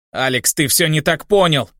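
ordinary delivery

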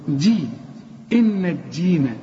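الدين with a very thin د before the long i; extra-light dal. Shown as a demonstration. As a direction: keep the د in دين as light as possible. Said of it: "وتكون أكثر رقة".

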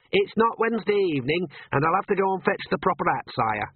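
put-on high, anxious young clerk voice; nervous royal historian.

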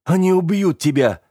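urgent hiss, pitched high; hissed warning. A narrator's reading. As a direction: spit the warning out in fear. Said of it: "прошипел я". (прошипеть с ужасом)

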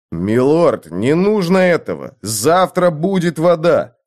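выше, громко, перекрикивая собак; прокричи, пересиливая лай; крик сквозь лай. Acted. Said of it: "Джо крикнул, пересиливая лай". (Джо кричит Мартину сквозь лай)

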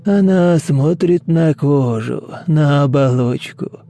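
slow rasping cult leader; hoarse rasp. Acted. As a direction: rasp slowly, savouring each word. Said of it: "прохрипел он".

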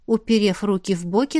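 plain reading voice

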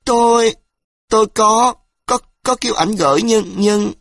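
high, loud panicked stammering; scared girl stammering under threat; frightened stammer. A narrator's reading. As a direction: blurt it out in terror, tripping on words. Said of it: "vung vội ra".

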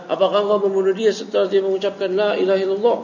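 cornering tone. Shown as a demonstration. Teacher repeating the Prophet's question to Usama, cornering. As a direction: press the question like a charge.

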